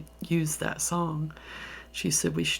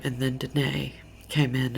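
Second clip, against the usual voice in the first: ordinary delivery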